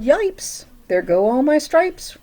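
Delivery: high, loud yelp of alarm; zebra yell. Acted. Zebra losing its stripes, high yelp. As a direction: yelp as your stripes fly off. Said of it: "The zebra yelled".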